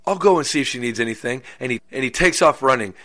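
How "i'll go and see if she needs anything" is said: put-on an eager young helper agreeing at once; excited boy. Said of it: "tells him with excitement".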